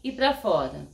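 shaky voice from a real tremor; trembling. Real, not acted. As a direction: speak through a steady tremble. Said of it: "você tá vendo que eu estou tremendo".

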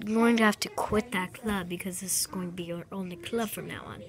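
bossy order, whispered. Pretend. Club leader whispering orders to the new member. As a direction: whisper it like a strict club boss.

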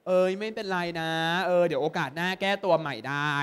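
lightly acted comforting of a friend; mock consoling. Teacher shows students how to console a friend over bad scores, mildly soothing. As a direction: draw it out gently, like reassuring a friend. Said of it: "ปลอบยังไง".

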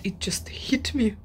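whispered realization; whispered "it just hit me". Real, not acted. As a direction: whisper it in awe.

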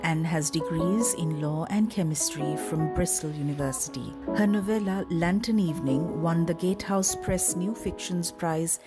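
measured, scripted introduction read; announcer bio read. Acted. Host introduces a guest author to listeners, announcer bio read. Reads author biography over music.

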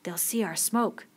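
slow, soft, self-directed words; understated, softly musing; speaking to himself. A narrator's reading. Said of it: "as he spoke to himself".

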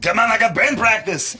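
high, loud, laughing whine; laughing mock protest. Retelling his excuse to the girl, laughing and loud. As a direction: blurt it through laughter. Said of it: "And he's like".

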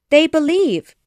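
high, loud burst of joy; happy cry. A narrator's reading. Saved Tink rejoices, crying out happily. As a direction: exclaim it joyfully in a fairy voice. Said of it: "she cried happily".

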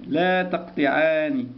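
لا تقطعان said slowly, stress on لا; slow emphasis. Shown as a demonstration. Teacher slows the dual form for pupils. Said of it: "مثنى اثنان".

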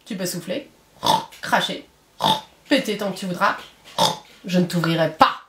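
unbothered piglet answering the wolf; little voice. Acted. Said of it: "répond une petite voix".

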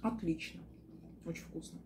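speaking with food in mouth; muffled chewing speech; talking while chewing. Real, not acted. Seen 0: Lips pursed and moving while she eats; fork over plate.

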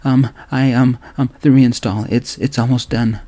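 nervous stammer. Acted. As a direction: trip over every word, flustered. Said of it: "I nervously stammered".

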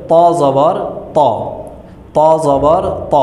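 "ত" as an emphatic Arabic t with open o; heavy Arabic Ta. Shown as a demonstration. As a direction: spell "ত জবর ত" deliberately, each "ত" thick and rounded. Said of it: "মোটা করে উচ্চারণ করতে হয়".

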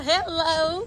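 bright rising hello; excited hello. Real, not acted. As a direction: sing out the greeting. Greeting friend at door.

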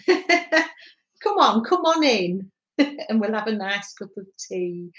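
lightly imitated northern English accent, with chuckles; a playful, badly done northern English accent; mum's northern accent. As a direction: do your mum's northern English welcome, amused. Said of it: "terrible accent".

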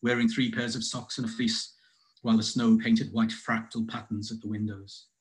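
measured poem recital with deliberate pauses; poetry reading. Acted. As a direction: read it as verse, line by line. Reads own poem aloud.

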